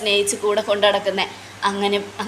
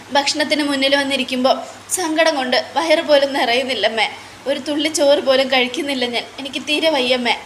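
higher, tearful pleading without real sobs; mock crying daughter; 3 semitones higher than usual. Nayana pouring out her grief to her mother-in-law, mild tearful plea. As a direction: plead like a heartbroken young wife, lightly acted. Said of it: "എന്നൊക്കെ പറഞ്ഞ് കരയുക".

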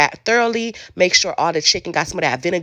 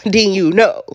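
"then you know" broken up by a real laugh; a knowing chuckle on "then you know"; 4 dB louder, slower than usual. Real, not acted.

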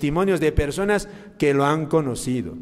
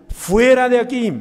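higher, louder mock shout of an angry priest; shouted dismissal; 9 semitones higher, 6 dB louder than usual. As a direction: bark the priest out of the confessional. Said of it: "Le gritaba y le decía".

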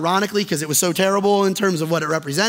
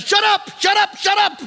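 much higher-pitched, fed-up outburst, repeated; exasperated mock shout; 12 semitones higher than usual. Pastor acting Chandler cutting off Ross's yelling, exasperated shout. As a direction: act out a friend at the end of his patience.

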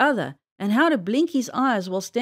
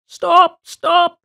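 high, loud shout of the fox; crying out; 6 semitones higher, 9 dB louder than usual. A narrator's reading. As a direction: shout it out sharply, pitched up. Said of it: "cried one fox".

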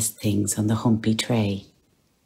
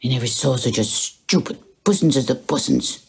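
mocking; 3 semitones higher than usual. A narrator's reading. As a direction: tease the cat fondly. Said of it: "he said mockingly".

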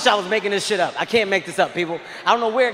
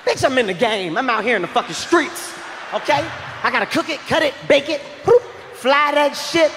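boastful dealer; 4 semitones higher than usual. Retold or imitated. High drug dealer boasting.

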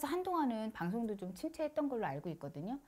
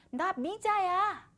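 slow, high, sing-song self-introduction; slow drawled reply; 9 semitones higher, 5 dB louder, much slower than usual. Retold or imitated. The possessed novice tells the shaman who she is, slow and high. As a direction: answer coyly and slowly. Possessed woman names herself.

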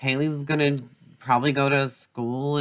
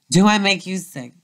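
higher and louder, spat back as a challenge; angry shout; 7 semitones higher, 6 dB louder than usual. Acted. Drunk mother repeating her taunt at her daughter, shouting. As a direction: fling the question at her, loud.

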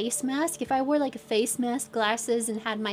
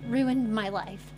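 mock dramatic. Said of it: "I was about to be so dramatic".

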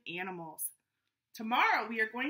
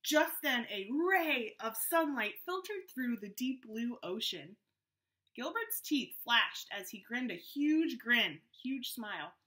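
story narration. A narrator's reading. Reads the story aloud.

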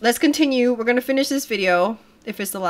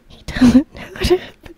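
louder and higher; 8 semitones higher, 8 dB louder than usual. Acted. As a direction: say it out loud, bright. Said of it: "Try to be as natural as possible".

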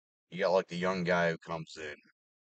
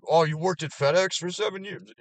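much higher, louder mock question; mocking eager kid; 10 semitones higher, 6 dB louder than usual. Mocking kids asking for help, high voice. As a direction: chirp it like the hopeful kids.

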